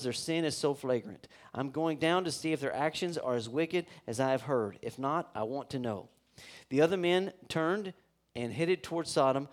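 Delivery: measured, even Bible reading to the congregation; scripture reading. Acted. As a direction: read the passage steadily, like a lesson. Reads scripture passage aloud.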